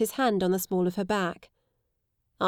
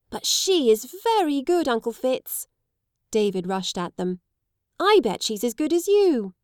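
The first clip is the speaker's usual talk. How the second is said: put-on high, excited child voices; children boasting about her; little boys urging, much higher; eager boys; 5 semitones higher, 4 dB louder than usual. Boys praising.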